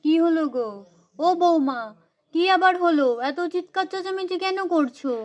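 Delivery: a hint of a fussy mother-in-law; lightly voiced mother-in-law. Mother-in-law voiced by same performer. (হালকা করে শাশুড়ির গলা)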